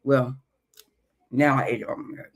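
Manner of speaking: talking through a mouthful of egg; words round a bite of food; mouth full. Real, not acted. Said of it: "I need time to chew".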